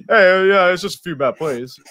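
dismissive mock player shrugging it off; lightly voiced offhand excuse; mocking McGlinchey impression. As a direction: imitate a player brushing off blame. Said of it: "That was Jose's impression of Mike McGlinchey".

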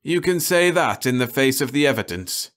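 bitter rising rant; bitter outburst. A narrator's reading. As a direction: hurl it at them in despair. Cahill's bitter despairing outburst.

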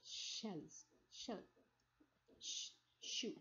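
shells, shell, shoe with a voiceless sh; sh words. Shown as a demonstration. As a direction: lean on the sh at the start. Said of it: "Starting sound of the sh".

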